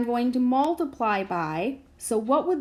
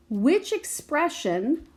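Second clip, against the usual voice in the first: expression drawn out slowly and raised; stress on expression; 4 semitones higher, slower than usual. Shown as a demonstration. Teacher to class, stressing the key word expression. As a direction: lean on the word expression to mark it. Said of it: "I'm gonna underline that word".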